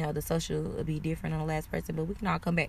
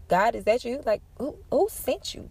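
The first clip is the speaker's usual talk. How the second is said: amazed disbelief; 5 semitones higher than usual. Retold or imitated. Amazed reaction to stranger's insight.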